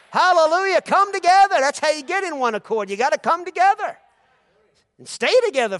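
high, loud preaching shout; full-force preaching. Acted. Pastor preaching loudly to the church about gathering.

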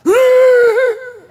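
loud high-pitched bellow; mock giant's roar. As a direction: burst out with a wordless giant's cry. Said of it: "And Goliath went".

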